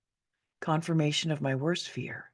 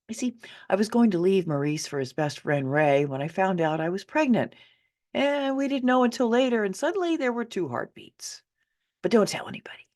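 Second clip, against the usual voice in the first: confiding mother; 4 semitones higher than usual. Acted. Mother's secret confession.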